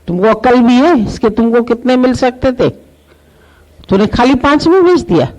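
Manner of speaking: outraged disbelief, pitch jumping up; shocked outburst. Acted. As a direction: jeweller berating the seller, stunned. Jeweller shocked at the sale.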